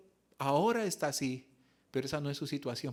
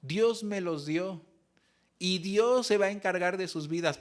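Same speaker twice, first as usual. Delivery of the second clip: mother's faith; 4 semitones higher, 5 dB louder than usual. Retold or imitated. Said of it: "Ella decía".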